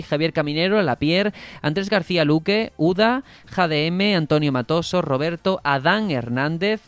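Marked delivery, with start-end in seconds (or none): 5.6-6.8 slow Adán Hernández, stress on the final A of "Adán"; acento en la última A. Shown as a demonstration. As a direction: say "Adán" slowly and land the stress on its last A. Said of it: "con acento en la última A". ("Adán" despacio, con el acento en la última A)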